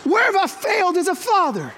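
mock despair.

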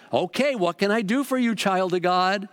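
a hint of the sugary shop lady; gushing church lady. Bookstore lady asking how to help, lightly sugary. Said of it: "this lady came out and says".

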